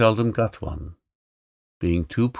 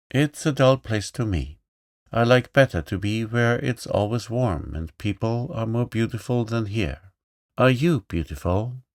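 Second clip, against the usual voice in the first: put-on bold little girl; 3 semitones higher than usual. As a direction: play the lively young princess, pitched up. Girl's lines.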